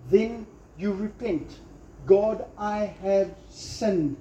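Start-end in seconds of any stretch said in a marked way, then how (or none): 2.1-4.2 slow, earnest prayer; prayerful. Shown as a demonstration. Preacher modelling a prayer of repentance, slow and earnest. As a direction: pray it slowly and humbly. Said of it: "You pray those exact words".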